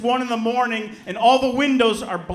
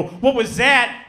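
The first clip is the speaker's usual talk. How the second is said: startled question; 4 semitones higher, 4 dB louder, slower than usual. Retold or imitated. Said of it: "and I go".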